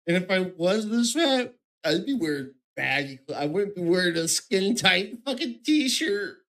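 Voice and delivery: Baked Alaska confronting. Retold or imitated. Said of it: "this is what he looked like".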